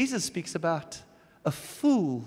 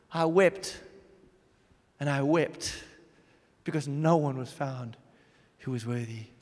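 lower, fading, grieving John; John weeping; 4 semitones lower than usual. Acted. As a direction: let the grief sink to almost nothing. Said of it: "And when he saw it".

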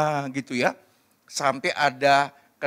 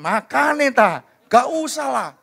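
high, loud mock telling-off; scolding; 9 semitones higher, 5 dB louder than usual. Parent to child who just fell, scolding. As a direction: scold like an exasperated local parent. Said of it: "Langsung dimarahin".

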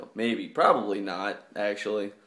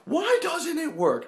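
exasperated whine; 14 semitones higher than usual. Real, not acted. Frustrated the trick failed.

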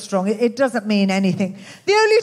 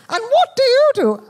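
very high, louder plummy royal voice; Queen impression; 4 dB louder than usual. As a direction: ask it like a gracious monarch. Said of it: "and she said".

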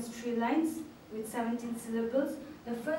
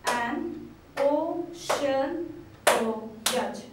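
An ocean voyage very slow and louder, each syllable punched; syllables clapped out; 2 semitones higher, 5 dB louder, much slower than usual. Shown as a demonstration. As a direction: clap out every beat of An ocean voyage. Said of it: "emphasizing on the number of syllables by clapping".

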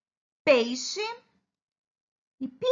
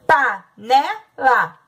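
Panela said slowly, every syllable pa-ne-la drawn out; slow clear word; 5 dB louder, much slower than usual. Shown as a demonstration. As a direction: spell out Panela slowly for the children. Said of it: "escrita de três formas".

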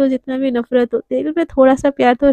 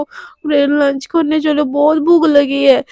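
slow pleading whine; slower than usual. Acted. Radhika begging Neha to make Devika come eat, slow and whiny. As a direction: drag the words out, begging.

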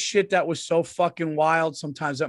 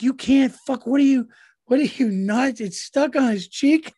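higher, louder mock scolding through laughter; yelling while laughing; 10 semitones higher, 5 dB louder than usual. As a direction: scold him but can't keep a straight face. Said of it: "bursted out laughing while she was yelling".

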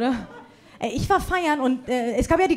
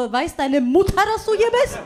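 mocking retort, rising high at the end; snarky put-down in a higher voice; sassy comeback; 4 semitones higher than usual. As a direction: tease him like a kid out too late. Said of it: "Ich so".

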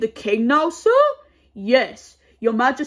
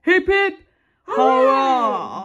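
hooray cheer; slower than usual. Acted. Second cheer, shouted.

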